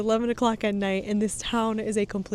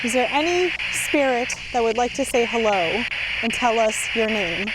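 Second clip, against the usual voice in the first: loud call into the dark; calling out to spirits; 4 dB louder than usual. Real, not acted. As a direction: call out to any ghost nearby.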